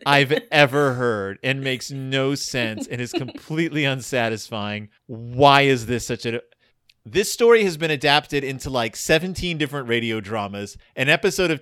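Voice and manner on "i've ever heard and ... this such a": scornful adult. Retold or imitated. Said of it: "An intelligent adult would go".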